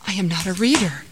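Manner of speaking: mildly startled reply; a touch of alarm; startled gasp. Acted. Startled man answers the voice in the cave, gasped. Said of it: "The startled man gasped".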